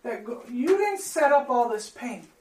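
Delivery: prayer. Acted. Pastor leads closing prayer.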